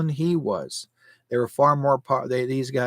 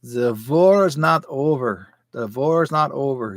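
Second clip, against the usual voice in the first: German teacher. Retold or imitated. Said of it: "he says".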